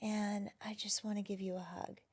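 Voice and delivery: soft, soothing reassurance; gentle parent. Acted. Therapist voicing a kind parent to a hurt inner child, gentle.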